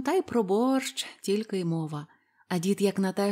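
usual speaking voice

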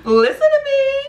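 high, loud laughing cry of listen; laughing plea. Real, not acted. Vlogger laughingly begging viewers to listen. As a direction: beg them through a laugh.

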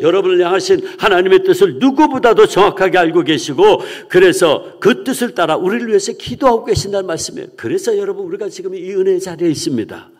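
loud, high, forceful sermon delivery; preaching at full force. Real, not acted. Pastor assuring the congregation the Spirit prays for them, loud, high preaching. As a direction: drive the message home to the congregation.

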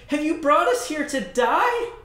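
high, loud accusation; panicked people accusing their leader; angry shout. Acted. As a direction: hurl it at him in fear. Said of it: "they shouted".

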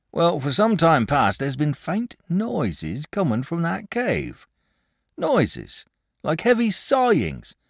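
a shepherd spinning a spooky tale by the fire; old shepherd. Acted. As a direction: tell it like a wary old country shepherd. Shepherd voiced in read story.

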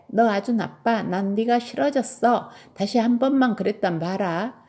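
put-on mildly cross, lively child's telling-off; exasperated scolding. Tilly scolds her bear for peeing on the floor, exasperated scolding. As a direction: scold like a fed-up little child.

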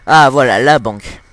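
loud pleased find; loud joy at finding the bank; excited. Real, not acted. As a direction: call it out like a discovery. Spots the bank to rob.

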